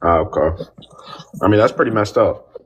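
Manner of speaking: hushed breathy aside, barely voiced; whispered. Real, not acted. Caller whispering a shocked reaction to the host's stance. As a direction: drop to a whisper, as if not meant to be heard.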